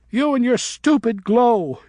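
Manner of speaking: put-on girl bat shouting while attacking him. A narrator's reading. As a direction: spit it out in envy. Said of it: "she was shouting".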